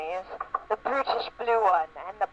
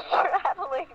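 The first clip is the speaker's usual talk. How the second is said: laughing; 9 semitones higher than usual. Real, not acted. Reading erotic fanfic aloud, cracking up.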